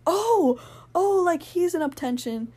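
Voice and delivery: imitating the idols' delighted surprise; surprised reply. Imitating the idols answering her, surprised and high.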